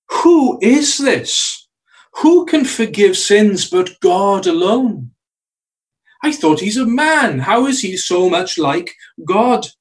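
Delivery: high, slow, outraged questioning; indignant Pharisees. Acted. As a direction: ask it like scandalised scribes. Pharisees reasoning among themselves.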